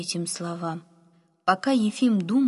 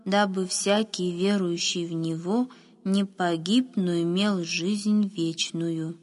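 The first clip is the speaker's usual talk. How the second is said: calm reading. A narrator's reading. Groom reads the Gospel to the boy, calmly. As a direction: read the verse out calmly, without hurry. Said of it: "спокойно прочитал конюх".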